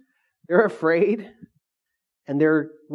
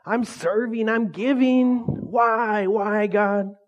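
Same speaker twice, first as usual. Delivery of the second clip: mock complaining; 5 semitones higher, much slower than usual. Voicing disciples' complaints to God.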